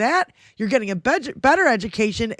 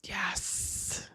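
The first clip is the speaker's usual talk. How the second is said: a breathy, voiceless yes; hushed little yes; whispered yes; 2 semitones lower, 18 dB quieter than usual. Real, not acted. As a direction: whisper it to yourself, pleased. Quiet gleeful aside on air.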